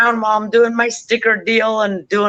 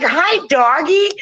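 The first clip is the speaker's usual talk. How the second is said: slow, higher sing-song parrot greeting; 6 semitones higher, slower than usual. Retold or imitated. Parrot greeting its drunk owners coming home, slow, higher parrot voice. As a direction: mimic the parrot and stretch the words out. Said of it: "And he's like".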